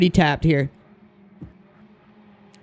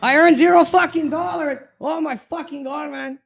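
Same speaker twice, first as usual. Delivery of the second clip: frustrated; 8 semitones higher than usual. Real, not acted. Dismay at zero earnings.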